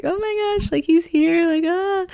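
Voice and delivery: high-pitched excited squeal; starstruck squeal. Retold or imitated. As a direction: gush like a starstruck fan. Panicking as the crush walks in.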